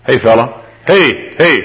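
acted call to get someone's attention. Passer-by hails a familiar face, calling out. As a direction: hail a passer-by with quick falling heys. Acting out hailing someone in street.

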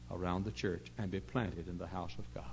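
drops to a whisper; hushed. Real, not acted. Preacher whispering to his congregation, hushed.

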